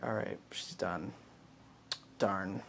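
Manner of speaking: low, soft "Darn"; quiet disappointed aside. Retold or imitated. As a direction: mutter it low to yourself. Quiet aside in dark room.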